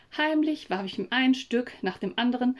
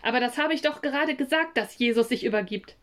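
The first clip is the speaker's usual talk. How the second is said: unmutig; faster than usual. Acted. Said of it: "machte ich meinem Unmut Luft".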